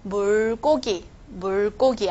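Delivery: "고" in "물고 기" tightened into a hard tense k; heavier tensed consonant. Shown as a demonstration. Teacher showing a special tensing case, "고" in "물고 기" made heavier. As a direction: say "물고 기" with a heavy "고". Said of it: "要把这个고变成重一点".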